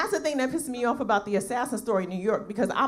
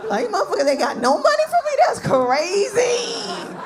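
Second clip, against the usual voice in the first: mock outrage; 11 semitones higher, 6 dB louder than usual. Comic outrage at empty fundraiser.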